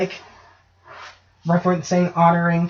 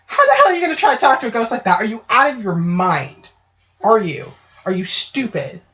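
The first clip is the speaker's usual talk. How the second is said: retold rant; 3 semitones higher than usual. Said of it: "with me just going".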